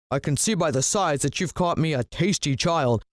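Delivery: villain gloating to his snake about dinner; lightly voiced greedy villain. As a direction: purr with greedy delight over the meal.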